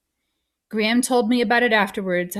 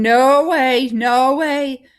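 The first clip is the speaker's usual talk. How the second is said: loud, raised cry of refusal; frantic denial; 4 semitones higher, 7 dB louder, much slower than usual. A narrator's reading. Boy going nuts among crying nurses, frantic denial.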